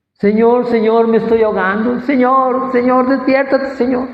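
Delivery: high, desperate calls to wake him; panicked plea. Retold or imitated. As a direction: cry out as if drowning. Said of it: "otra vez para abajo". (el creyente clama al Señor con voz alta y desesperada)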